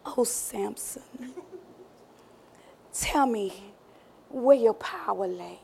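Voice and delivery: slow, soft pillow-talk coaxing; soft coaxing Delilah. Acted. Delilah sweet-talking Samson in bed, soft and slow. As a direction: coax him gently, drawing out Samson.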